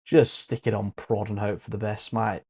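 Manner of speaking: put-on a light Australian accent, casual; easygoing Aussie advice. Casual advice to viewers in an Australian accent. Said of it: "I'm putting on an Australian accent".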